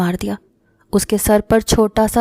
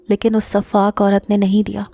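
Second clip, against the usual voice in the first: usual speaking voice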